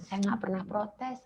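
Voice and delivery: mother retelling her prayer, whispering and tearful; whispered prayer. Retold or imitated. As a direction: sink into a whisper as you give in. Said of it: "saya bilang gitu sama Tuhan".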